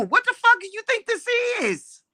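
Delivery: high furious yell at the haters; furious shout. Real, not acted. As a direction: blast it out, outraged. Angry rant at haters.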